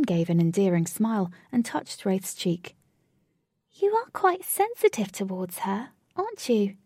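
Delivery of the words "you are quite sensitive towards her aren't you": put-on high fairy girl voice. A character voice.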